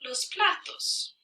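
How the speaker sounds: slow Spanish with a long mid-sentence pause; slowly dictate, pausing between phrases; dictated example sentence. Shown as a demonstration. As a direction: read it out piece by piece as if writing it. Writing out student's wrong sentence.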